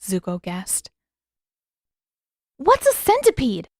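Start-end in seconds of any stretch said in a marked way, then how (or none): 2.6-3.7 bewildered question. Acted. Yue confused and scared.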